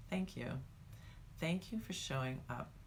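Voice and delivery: soft grateful self-talk; gentle thanks to self. Shown as a demonstration. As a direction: thank yourself quietly. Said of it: "say to yourself".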